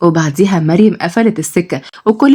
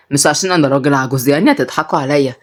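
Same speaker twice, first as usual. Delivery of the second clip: put-on lower, easygoing old man; old grandpa; 5 semitones lower than usual. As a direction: talk like a fond grandfather, low. Grandpa voiced.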